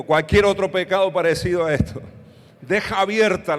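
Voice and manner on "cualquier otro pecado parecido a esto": leading congregational repeat. Shown as a demonstration. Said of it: "diga conmigo".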